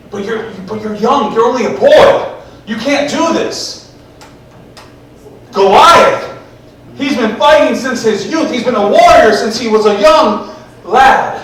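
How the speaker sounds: incredulous objection, building in pitch and force; alarmed protest. Retold or imitated. Saul protests that David can't.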